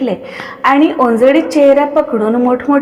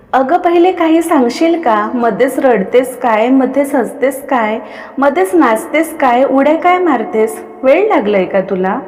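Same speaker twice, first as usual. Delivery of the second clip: irritated. Acted. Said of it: "Kaveri चिडून बोलली".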